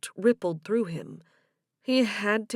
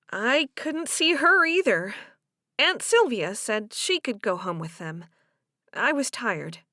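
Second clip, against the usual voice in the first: lightly voiced Delia; 2 semitones higher, 3 dB louder than usual. Delia explains to Joe why she left, lightly voiced. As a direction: lightly play Delia excusing herself, settling down.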